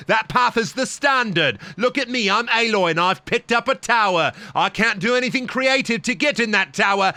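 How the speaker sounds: lightly voiced Aloy, half-sung to mock the game's rules. Streamer mocks the Horizon heroine's obedient climbing, sing-song parody. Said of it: "My name is Aloy".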